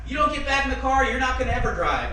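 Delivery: loud, high retold ultimatum; imitated yelling. Dad threatening the learner outside the truck, imitated yelling. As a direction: lay down the threat like an irate dad. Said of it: "He always yelled".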